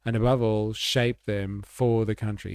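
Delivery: a touch of campaign-speech pomp; mock politician. Streamer dubbing the politician's promise with light pomp. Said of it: "vor allem fürs Land".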